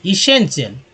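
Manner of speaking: एसेंशियल sounded out as "e-sen-shyal"; model reading. Shown as a demonstration. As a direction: read एसेंशियल clearly, part by part. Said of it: "ऐसे ही पढ़ना". (एसेंशियल को साफ़ पढ़कर दिखाना)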